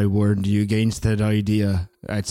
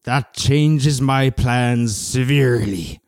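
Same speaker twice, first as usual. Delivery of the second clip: man doing a woman's voice. Acted. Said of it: "impression of your mom".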